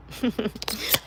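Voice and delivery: short airy laugh between goodbyes; a quick breathed chuckle; breathy laugh. Real, not acted. Laughing while signing off.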